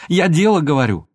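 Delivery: loud and high, heated. A narrator's reading. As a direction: keep pressing him hard. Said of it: "закричала она".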